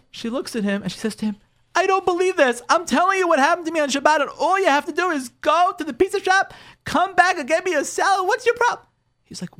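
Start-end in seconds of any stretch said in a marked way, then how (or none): 1.7-8.9 high, rising exasperation; exasperated wife. Acted. Wife to husband over the pizza salad, high and exasperated. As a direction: let her frustration break out, high.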